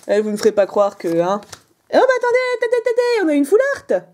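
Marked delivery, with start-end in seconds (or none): 1.9-4.0 much higher, eager calling out; excited. Real, not acted. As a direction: hold on, thrilled. Pulling a full art card. (exclamation excitée très aiguë)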